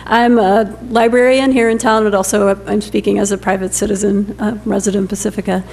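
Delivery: hoarse, fading voice; raspy, strained, losing her voice. Real, not acted. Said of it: "I'm losing my voice".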